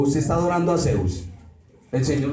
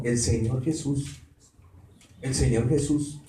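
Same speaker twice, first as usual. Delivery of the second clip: lower, softer "el Señor Jesús", spaced out with reverence; full reverent title; 3 semitones lower, 4 dB quieter than usual. Shown as a demonstration. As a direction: correct yourself and give "el Señor Jesús" its full weight. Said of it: "no, Jesús no".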